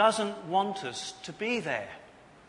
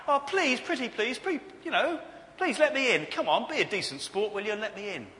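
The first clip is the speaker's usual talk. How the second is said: high, loud mock begging; pleading; 7 semitones higher, 6 dB louder than usual. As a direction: wheedle and beg to be let in. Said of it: "notice that pleading is ineffective".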